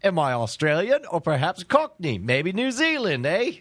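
muddled Australian-Cockney put-on accent; hammy accent wandering between Australian, Cockney and New Zealand; indeterminate accent. Co-host guessing his own origin, in an indeterminate accent. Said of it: "an accent of indeterminate origin".

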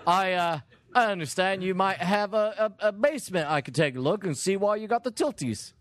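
lightly hammed British workman; a bit of bad British accent; put-on British tradesman patter; fake British accent. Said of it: "my terrible fake accent".

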